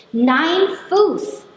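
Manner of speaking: high, loud German scolding; scolding shout. Retold or imitated. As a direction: snap it out to get the foot down. Woman scolds stranger on bus.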